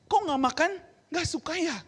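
mild retold coaxing; gently coaxing child. Asking a silent child, retold.

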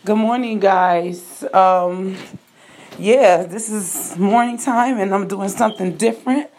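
talking while brushing teeth; toothbrush in mouth. Real, not acted. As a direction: speak around a toothbrush. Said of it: "talking with his toothbrush in his mouth".

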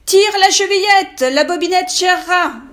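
sweeten the voice to pass as granny; softened wolf voice. Acted. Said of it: "en adoucissant un peu sa voix".

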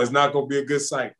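laughing through the words; chuckling as he says it. Real, not acted. Jokes about accent played back.

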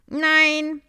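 high, loud breathless no; the honey carrier short of breath. A narrator's reading. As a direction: puff it out after flying hard. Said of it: "die etwas außer Atem war".

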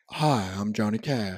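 whispered low singer impression; a hint of a deep country singer; impression of a country singer. Shown as a demonstration. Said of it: "quite as low as Johnny Cash".

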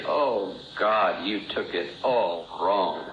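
drawn-out mock exasperation; sarcastic dismissal. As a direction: brush her off as if she overreacted. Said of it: "I did not use that tone of voice".

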